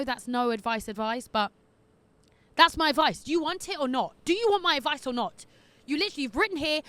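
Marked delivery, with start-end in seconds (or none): 2.6-5.5 loud, playfully defensive jab; mock defensive. Real, not acted. Advice giver teasing the letter writer, loud and defensive. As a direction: demand it back, half joking.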